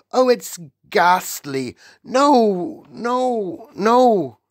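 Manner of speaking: high, loud, desperate nightmare pleading; crying out in a bad dream; sleep talking. A narrator's reading. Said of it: "a slightly blurred sleep talker's voice".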